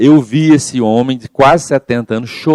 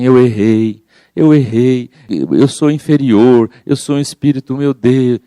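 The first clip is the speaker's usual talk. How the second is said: anguished self-blame. Retold or imitated. Speaker acting out a guilt-ridden person in crisis, anguished lament. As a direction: wail your mistake over and over, sinking into guilt. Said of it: "Se você ficar assim".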